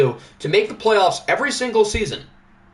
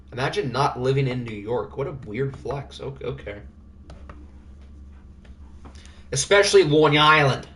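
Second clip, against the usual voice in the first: mock Italian accent; 2 semitones lower than usual. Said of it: "was that a good accent?".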